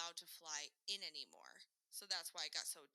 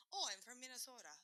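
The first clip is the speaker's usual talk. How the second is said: put-on higher-pitched, thick Minnesota accent; 5 semitones higher than usual. Telling Southerners where they're from, in a thick Minnesota accent. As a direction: overdo the Minnesota vowels. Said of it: "it's so thick".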